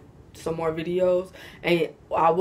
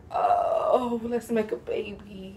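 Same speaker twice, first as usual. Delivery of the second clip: mock smitten; 3 semitones higher, much slower than usual. Vlogger reacting to positive energy, mock smitten. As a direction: play at being won over, a little higher. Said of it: "Positive energy, I'm just like".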